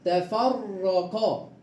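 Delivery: تفرقا drawn out slowly with a thick ra; slow heavy ra. Shown as a demonstration. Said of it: "الراء مفتوحة إيه؟".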